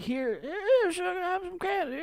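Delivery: put-on high, sweet old grandma offering candy. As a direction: play a doting grandma. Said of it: "they're like".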